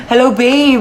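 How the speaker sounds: giggling hello back; laughing greeting. Acted. Girlfriend answers the call, giggling. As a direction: laugh through the reply.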